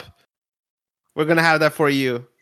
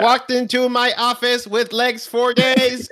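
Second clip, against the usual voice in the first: slow hard-boiled noir narration, higher; noir detective; 6 semitones higher than usual. Acted. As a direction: narrate it like a film noir gumshoe. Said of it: "Night of the Daleks".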